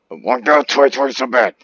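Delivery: so bad. Real, not acted. Yearning loudly for the new year.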